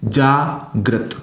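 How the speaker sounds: very slow जागृत with a clear ृ; slow correct pronunciation. Shown as a demonstration. Teacher slowly giving the children the right जागृत. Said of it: "जागृत बिल्कुल सही होगा".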